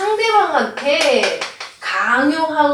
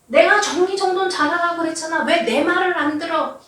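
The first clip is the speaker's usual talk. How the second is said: higher, exasperated scolding; mock scolding; 5 semitones higher than usual. Mother blames kids and husband for mess, mock scolding. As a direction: scold the family for the mess, half-acted. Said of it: "상대방을 비난하는 거죠".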